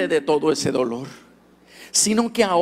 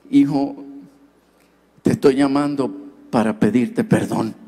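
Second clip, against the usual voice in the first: father's voice; 3 semitones lower than usual. Retold or imitated. Father asking forgiveness.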